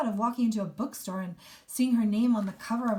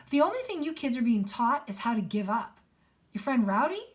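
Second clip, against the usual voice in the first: mildly heated, a bit louder; furious; 2 semitones higher, 4 dB louder than usual. Acted. Mister P scolding the students, with mild anger. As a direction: press the words with restrained anger. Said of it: "Mister P was furious".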